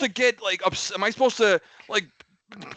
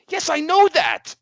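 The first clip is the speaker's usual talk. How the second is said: sarcastic; 13 semitones higher, 6 dB louder, slower than usual. Retold or imitated. Retelling a sarcastic reply.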